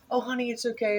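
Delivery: lightly voiced mother soothing her daughter; imitating soothing mom. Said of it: "the mom is like".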